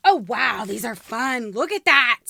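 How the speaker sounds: usual speaking voice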